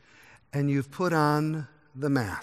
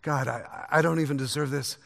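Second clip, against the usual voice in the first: faltering, much softer penitent prayer; humble plea; 2 semitones lower, 6 dB quieter than usual. Retold or imitated. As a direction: pray like a broken man who dares not look up. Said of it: "that man who stands at a distance and says".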